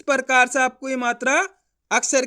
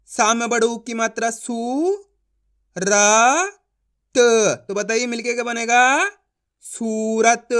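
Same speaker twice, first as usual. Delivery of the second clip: syllable-by-syllable sounding out; slower than usual. Shown as a demonstration. Teacher shows a class how to blend letters, slow and spaced. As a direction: separate each letter with pauses, then blend into मूरत. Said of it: "इस तरीके से एक ही अक्षर का उच्चारण".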